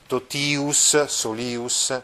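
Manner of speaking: totius e solius con la i di ius lunga; long ius ending. Shown as a demonstration. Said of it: "pertanto si pronuncia così". (pronuncia lunga di totius e solius)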